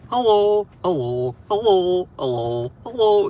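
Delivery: lightly voiced, bouncing hello, up and down; imitating the professor. Vlogger imitating the professor from the Vine, bouncing hellos. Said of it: "professor that would go".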